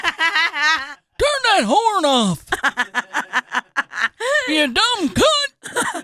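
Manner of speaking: slow, drawn-out mock yell. Man yelling at you in a parking lot, mock yell. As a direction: act out a parking lot rant, stretching the words. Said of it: "looks like he's yelling at you".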